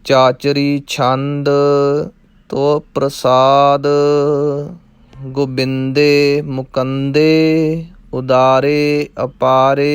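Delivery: slow, measured chanting; slow recitation. Shown as a demonstration. Teacher chants the verse slowly. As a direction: intone the verse evenly.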